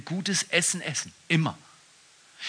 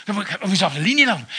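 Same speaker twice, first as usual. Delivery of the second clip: put-on drunk slurred question; 4 semitones higher, 5 dB louder, much faster than usual. Drunk driver slurs.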